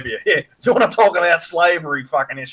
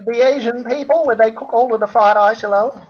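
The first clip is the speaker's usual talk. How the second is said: higher, put-on mock Asian accent; 5 semitones higher than usual. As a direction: do a crude Asian accent on request. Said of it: "Do your Asian impersonation".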